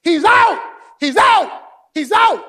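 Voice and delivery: loud high yell of he's out; furious players yelling out; angry crowd shout. Retold or imitated. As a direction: shout it like the visiting team arguing. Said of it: "the visiting team ran out".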